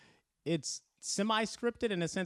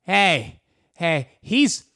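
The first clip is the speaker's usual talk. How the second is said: heckler voice; 5 semitones higher, 11 dB louder, slower than usual. Retold or imitated. Heckler defending comedian at show.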